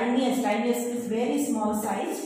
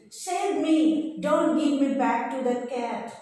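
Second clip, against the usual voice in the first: pleading cry for help; elf shouting; 3 semitones higher than usual. Acted. The elf begs Patrick not to hand him back, shouting. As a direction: call out to be saved. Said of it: "The elf shouted, yelled".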